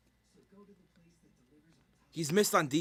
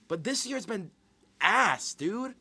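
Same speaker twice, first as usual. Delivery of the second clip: exasperated; 9 semitones higher, 3 dB louder, slower than usual. Real, not acted. Exasperated about this year's picks.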